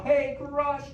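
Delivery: high, loud call of Hey Crush; yell demo. Shown as a demonstration. Host to kids, demonstrating the loud call to Crush. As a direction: show the kids how to shout it. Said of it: "we need to yell".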